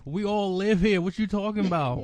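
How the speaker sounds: acted-out disbelief; incredulous students. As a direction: protest as the baffled class. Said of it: "And we're like".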